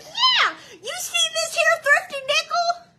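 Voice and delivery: high, slow smooth-talking recruiter; high drawn-out come-on; hustler's pitch. Retold or imitated. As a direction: sell it like a slick hustler. The pimp's pitch, voiced.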